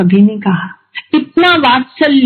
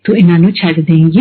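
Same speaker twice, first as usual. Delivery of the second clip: very polite; 6 semitones lower, faster than usual. Retold or imitated. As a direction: ask it as gently as you can. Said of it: "उससे polite आवाज आज तक मैंने सुनी नहीं है".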